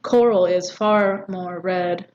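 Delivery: slow line with weight on "far"; deliberate, drawn-out "far"; stress on far. Shown as a demonstration. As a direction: lean on "far" in a measured verse reading. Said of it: "this here arguably is stressed".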